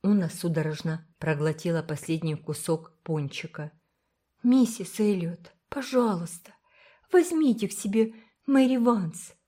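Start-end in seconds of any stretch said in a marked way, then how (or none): 4.4-9.3 put-on high, earnest plea of a little girl; pleading girl. A narrator's reading. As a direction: beg her gently, a child asking a big favour. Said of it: "произнесла она умоляюще". (умоляющий детский голос, выше обычного)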